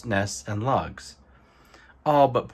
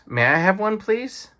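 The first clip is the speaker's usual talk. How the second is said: high, louder eager asking; eager otter; 9 semitones higher, 3 dB louder than usual. Acted. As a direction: bounce with excitement.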